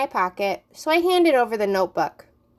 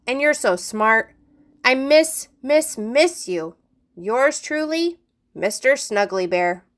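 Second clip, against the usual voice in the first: mock love letter. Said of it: "pretending to read from my notebook".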